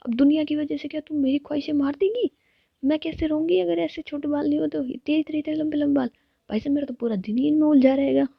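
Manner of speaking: excited protest. Acted. Sam protesting to Ritika about long hair, excited and high. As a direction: squeal it out like she can't bear long hair.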